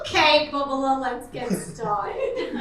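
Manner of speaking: lightly hammed-up Jewish mother GPS, slow; loud "okay", then drag it out like a bossy mama; Jewish mother know-it-all. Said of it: "like a Jewish mother know-it-all".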